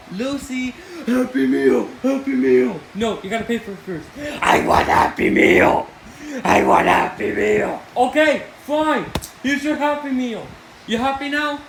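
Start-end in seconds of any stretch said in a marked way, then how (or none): 4.4-7.8 put-on whiny kid voice demanding a treat; bratty demand. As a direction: beg like a spoiled child. Child demanding food.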